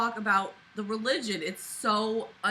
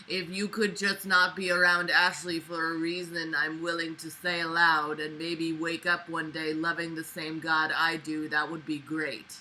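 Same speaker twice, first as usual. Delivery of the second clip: mocking dad; 4 semitones lower than usual. Mocking the father's voice.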